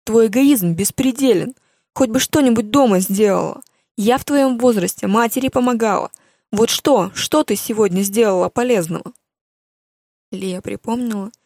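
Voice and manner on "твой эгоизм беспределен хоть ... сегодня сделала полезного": angry mother scolding. Acted. Mother berating her daughter Lia, loud and furious. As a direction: shout it down at her like an outraged mother.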